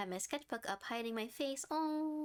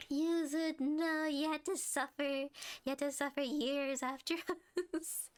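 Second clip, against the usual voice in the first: louder, higher "no, you had to suffer"; a real half-laughing louder lament, higher; dismayed outcry; 4 semitones higher, 3 dB louder than usual. Real, not acted. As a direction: cry out in mock horror for a friend. Sympathetic outburst at friend.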